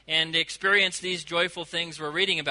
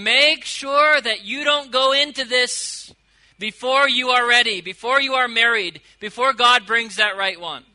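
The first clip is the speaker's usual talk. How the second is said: urgent warning; 3 semitones higher, 5 dB louder than usual. Acted. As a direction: press each 'before' home like a big sister. Bride warns unmarried friends.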